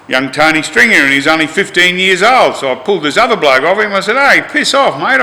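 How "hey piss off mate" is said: sharp raised warning, much higher; retold shout. To a bikie beating a fifteen-year-old, a mock yell. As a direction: order him off the kid, voice up high.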